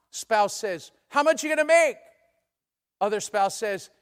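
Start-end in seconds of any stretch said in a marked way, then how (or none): 1.1-2.0 loud, high, excited asking; acted excitement, voice pitched up; eager question. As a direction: play the spouse eagerly asking back.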